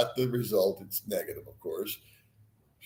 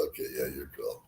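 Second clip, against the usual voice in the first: mock low guard; 7 semitones lower, 13 dB quieter, faster than usual. Voicing the officer's reply.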